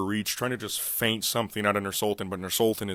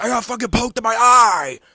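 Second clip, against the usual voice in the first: mock whining; 10 semitones higher, 9 dB louder than usual. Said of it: "He's like".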